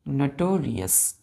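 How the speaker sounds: नोटोरियस said slowly, syllable by syllable; slow careful pronunciation. Shown as a demonstration. Teacher slowly models नोटोरियस for children, drawn out. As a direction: stretch out नोटोरियस for the class. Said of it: "pronounce कैसे करते हैं".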